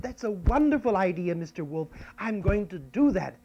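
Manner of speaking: a hint of a happy little girl; Red Riding Hood. Girl agreeing to pick flowers, lightly delighted. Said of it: "and she said".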